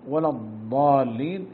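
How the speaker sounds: "ولا الضالين" with ض turned to ظ, slowly; wrong ḍād as ẓā. Shown as a demonstration. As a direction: say "الضالين" with a ظ sound like ظل. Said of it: "يقلب الضاد إلى ضاء".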